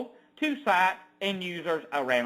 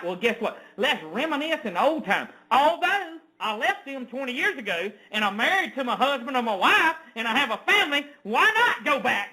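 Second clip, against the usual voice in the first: a lightly raised, scheming mock voice; ridiculing what those people think; mocking their thinking; 3 semitones higher than usual. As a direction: play the sly Facebook users, half laughing. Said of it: "this is what these people thought in their mind".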